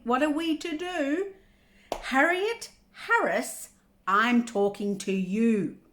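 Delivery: slow, deliberate pleading that builds in pitch; exasperated mother. Acted. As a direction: stretch each phrase, holding back a yell. Mother holding back a yell, exasperated.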